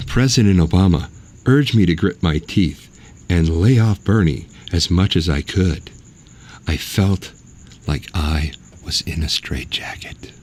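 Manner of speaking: lightly voiced Hillary in ASMR. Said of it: "my A S M R voice 'cause I'm gonna try and be Hillary".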